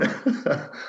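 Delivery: short breathy nervous laugh; a quick uneasy laugh. Real, not acted. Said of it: "I'm only laughing nervously".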